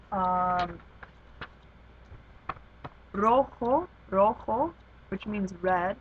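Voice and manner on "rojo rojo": "rojo" with RO louder and longer; stress on first syllable of rojo. Shown as a demonstration. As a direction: punch the RO in "rojo". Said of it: "the emphasis goes on the second to last syllable".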